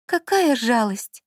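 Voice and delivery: slow, wistful sigh of regret; a slow, dreamy sigh over lost jewels. Acted. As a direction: let it out on a sigh, slowly. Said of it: "вздохнула Лола".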